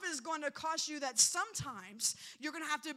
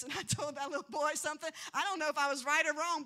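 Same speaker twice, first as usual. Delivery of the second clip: teacher voice; 4 dB louder, faster than usual. Retold or imitated. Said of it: "I got up in my teacher voice".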